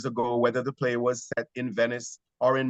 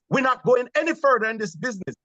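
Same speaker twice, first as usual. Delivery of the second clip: higher, lightly Caribbean-voiced Macbeth; 8 semitones higher, 3 dB louder than usual. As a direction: say it as an island Macbeth. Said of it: "the line is".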